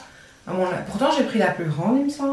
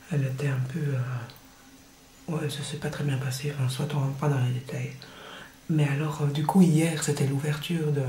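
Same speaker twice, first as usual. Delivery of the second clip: voix basse; 4 semitones lower, 5 dB quieter than usual. Real, not acted. Parle bas, mari dort.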